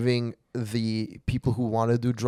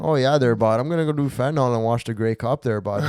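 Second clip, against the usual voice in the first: mock Canadian accent. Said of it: "Every time I hear those Canadian people".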